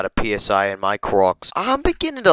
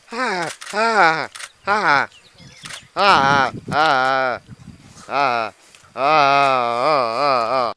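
drawn-out "ah" cries; much slower than usual. Pretend. Open-mouthed cries while watching rhino clip.

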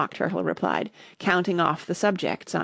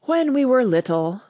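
high, loud Mock Turtle wail; slightly sobbing; 6 semitones higher, 6 dB louder than usual. A narrator's reading. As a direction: hold back sobs while reminiscing mournfully. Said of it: "though still sobbing a little".

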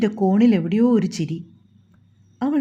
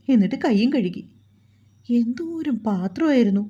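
lightly voiced grumbling maid. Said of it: "വീണ പതിയിരുന്ന് അവളോട് പദം പെറുക്കി".

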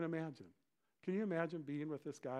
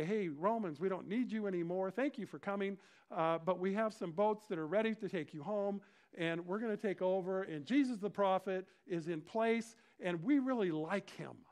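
louder, higher, cheery dismissal; breezy send-off; 4 semitones higher, 4 dB louder than usual. Acted. People telling Romans to leave, confidently upbeat. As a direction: politely show the occupiers the door.

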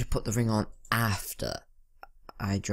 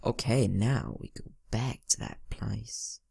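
put-on Australian accent. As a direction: try on a stereotypical Australian accent. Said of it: "I'm trying to put on accents".

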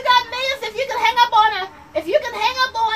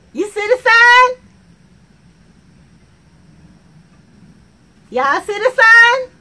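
slow and louder, leaning on sign; slow emphatic point; 6 dB louder, slower than usual. Acted. Temp pointing out the boss's sign to the crowd, slow and loud. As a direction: make them look at the sign.

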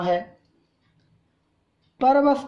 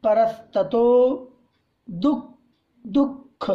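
परस्ततो spelled out syllable by syllable; slow recitation of परस्ततो; slow careful recitation; much slower than usual. Shown as a demonstration. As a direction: draw out परस्ततो very slowly. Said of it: "शुद्ध उच्चारण के साथ".

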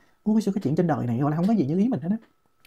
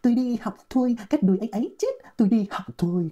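reads the poem slowly, like a recital; slow poem reading; 2 semitones higher, slower than usual. Shown as a demonstration. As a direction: recite each line slowly and clearly. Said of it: "các bạn nghe tôi đọc". (đọc thơ chậm rãi như ngâm thơ)

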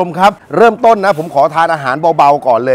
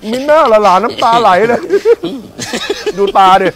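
giggling at the tearful grandchild, pitched up; laughing apology; 7 semitones higher than usual. Real, not acted.

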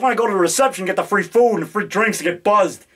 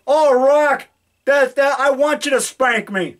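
a lightly raised, coy caller; mock fan voice; 4 semitones higher, slower than usual. Fan asking the actor for a spanking, lightly hammed. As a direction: tease it out like a cheeky prank caller. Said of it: "one of them said".

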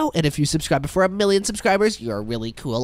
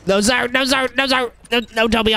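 high shout; 7 semitones higher than usual. Acted. Recruit denying loudly.

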